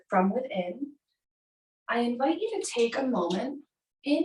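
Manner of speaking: unhurried yoga nidra guidance with long pauses; guided meditation. Acted. Yoga teacher guides class to find an intention, measured meditation voice. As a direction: guide them inward, phrase by phrase.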